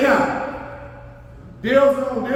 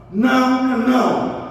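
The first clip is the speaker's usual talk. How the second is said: firm refusal; 3 semitones higher than usual. Shown as a demonstration. Pastor showing parents how to say no, firm and final. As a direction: leave no room for maybe. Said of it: "aquele momento ali é não".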